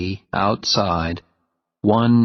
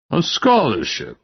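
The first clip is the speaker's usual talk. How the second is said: surprised question; 8 semitones higher than usual. Acted. Dean surprised by request.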